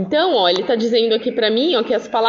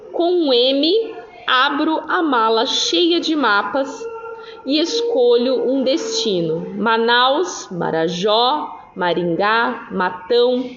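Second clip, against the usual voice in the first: slow, measured poem read-aloud; teacher reciting a poem slowly; slower than usual. Acted. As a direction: read each line slowly, pausing between place names.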